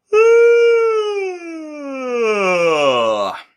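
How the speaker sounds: a big open yawning sigh falling down. Shown as a demonstration. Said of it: "I yawned from my chest vo-, head voice".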